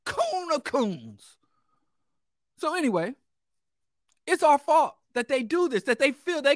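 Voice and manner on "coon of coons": slow, soft, contemptuous verdict; slow scornful aside. Real, not acted. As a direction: drag it out with disdain. Mocking verdict after impression.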